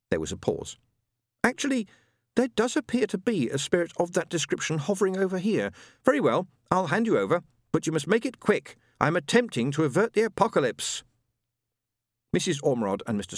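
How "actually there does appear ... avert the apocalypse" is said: high, lofty, impatient voice; a grand guide, busy with doom; haughty spirit guide. Acted.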